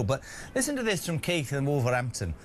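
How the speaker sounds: a quick lightly put-on Black Country accent on the name of the place; sudden Black Country accent. Host reading out a listener's message, in a brief Black Country accent. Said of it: "Don't know why I did that accent".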